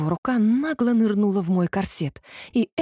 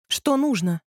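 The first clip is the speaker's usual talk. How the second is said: higher, cold and curt question; 5 semitones higher than usual. A narrator's reading. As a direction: ask coldly, keeping him at a distance. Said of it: "спросила я холодным голосом". (холодным голосом)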